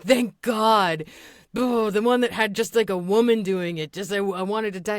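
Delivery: exaggerated commenter outburst, pushed up and loud; mock dramatic relief. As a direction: imitate overwrought relief.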